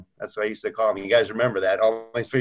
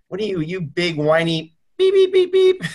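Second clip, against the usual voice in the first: higher mock scolding with beeps for swearing; tough-love scolding; 6 semitones higher, 3 dB louder than usual. Coach berating his complaining client, mock scolding. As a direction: imitate a blunt coach, censoring the curses. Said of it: "He just went between the eyes".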